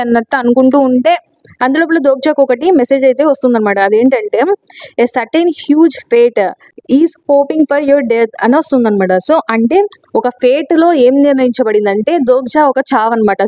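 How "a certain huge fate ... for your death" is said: very slow, measured reading; deliberate, word-by-word announcement; slow message readout. Retold or imitated. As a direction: read out the ominous message in spaced-out phrases. Reads out a fateful system message.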